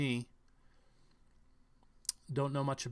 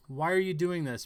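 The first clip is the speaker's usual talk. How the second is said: higher and louder, urgent asking; alarmed witness question; 4 semitones higher, 5 dB louder than usual. Retold or imitated. Vlogger acting a witness asking the shooter, urgent. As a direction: plead with him mid-attack.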